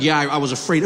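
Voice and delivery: a hint of a low, sheepish shooter. Shooter explains shooting a fleeing man, sheepish.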